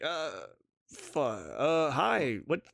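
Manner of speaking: panicked fan losing his words; flustered stumbling. Pretend. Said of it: "maybe I'll stumble".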